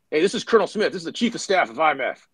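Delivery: stern colonel. Retold or imitated. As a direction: bark it like an angry colonel. Colonel scolding a captain.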